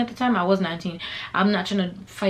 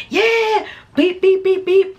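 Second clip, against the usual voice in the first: high, loud cheer into bleep noises; imitated game cheering; 11 semitones higher, 5 dB louder, slower than usual. Fan filming the game yells and swears, high bleeped-out cheering. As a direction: yelp it, then chirp out censor beeps. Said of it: "all you hear in the background is me like".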